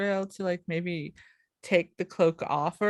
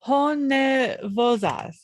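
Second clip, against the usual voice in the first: drawn out; 4 semitones higher, much slower than usual. Shown as a demonstration. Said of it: "which is our first syllables".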